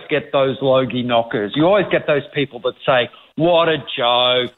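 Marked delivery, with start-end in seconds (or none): 3.3-4.5 slow, drawn-out mock disdain; mock scorn. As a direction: imitate a dismissive knocker, dragging the words. Voicing the scornful Logie knockers.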